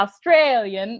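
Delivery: badly attempted Australian accent; unconvincing Australian twang; failed Australian accent. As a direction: have a feeble go at an Australian accent. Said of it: "That was not Australian".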